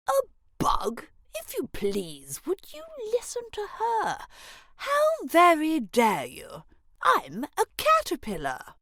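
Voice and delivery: high, indignant little caterpillar; offended grub. A narrator's reading. Jones is insulted at being called a bug, indignant.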